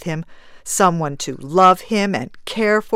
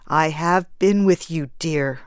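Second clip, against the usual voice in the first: gentle. Acted. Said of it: "said the man gently".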